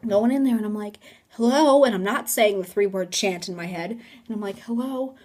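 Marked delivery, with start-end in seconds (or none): 1.3-1.8 loud, high hello; calling out. Retold or imitated. Teller entering the haunted room, calling out loudly. 4.6-5.1 high, lighter hello; tentative calling. Retold or imitated. Teller checking the haunted room, tentative high call. Calls again more timidly.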